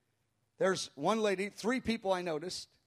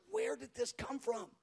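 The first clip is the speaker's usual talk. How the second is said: softer, slower, puzzled murmur; bewildered aside; 4 semitones higher, 7 dB quieter than usual. Retold or imitated. Pastor puzzles over the sudden wailing, bewildered. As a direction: wonder it quietly to yourself.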